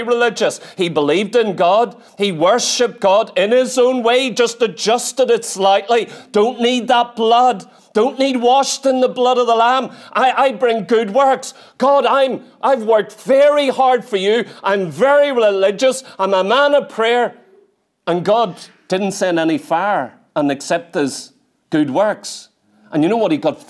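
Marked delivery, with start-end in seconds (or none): 6.3-17.4 smug Cain. Acted. Cain voiced boasting to God.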